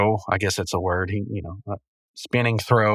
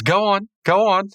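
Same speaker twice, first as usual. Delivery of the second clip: high, eager urging; lightly voiced Pops; 9 semitones higher than usual. Pops urging Rigby to start charades, high and eager. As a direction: egg them on in a raised cartoon voice. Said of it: "And he goes".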